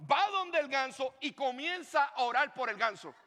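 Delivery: ordinary talk, nothing marked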